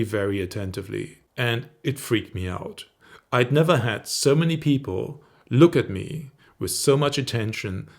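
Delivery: commanding storyteller with falling phrase endings; downward inflection. Shown as a demonstration. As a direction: end each phrase stepping firmly down in pitch. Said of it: "I was using a downward inflection".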